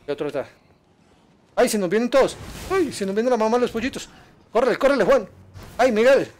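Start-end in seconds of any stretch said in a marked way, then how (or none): 1.6-6.3 real alarm as the enemies close in; panicked calling out. Real, not acted. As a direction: yelp at your partner while running. Fleeing enemies in game, panicking.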